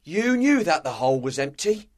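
high-pitched accusation; accusing pirate. A narrator's reading. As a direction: confront the leader with betrayal. Merry accuses Silver.

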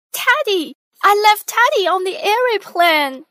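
high, loud cry of sudden alarm; a small pig girl remembering her lost toy; panicked little girl. A narrator's reading. Peppa crying out to her family that Teddy is left behind, high and alarmed.

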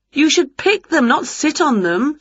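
high, brisk scolding witch; lightly scolding storybook witch; chiding witch. A narrator's reading. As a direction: chide the cat in a high voice. Winnie chides Wilbur.

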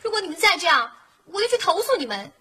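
tearful, angry scolding down the phone; upset complaint. Acted. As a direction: threaten them while close to crying. Tenant scolds renovation crew, near tears. (带着哭腔气愤地训斥)

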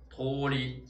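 通り said as tōri, o held; long o. Shown as a demonstration. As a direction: stretch the first vowel of 通り. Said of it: "都是o来表示长音的". (通り开头的o读长音)

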